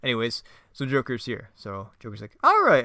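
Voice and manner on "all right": high, loud cartoon Joker; hammed-up Joker impression; terrible Joker voice. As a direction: sneer it like a cheap Joker. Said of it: "my terrible Joker voice".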